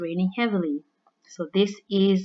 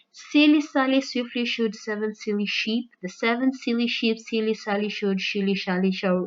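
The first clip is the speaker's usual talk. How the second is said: tongue twister attempt; 3 semitones higher than usual. Shown as a demonstration. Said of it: "say it as quickly as you can".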